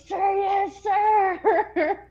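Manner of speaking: high, snappy sir yes sir; military reply. Retold or imitated. Recruit answering officer, high and crisp. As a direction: bark it like a recruit. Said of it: "I'm like".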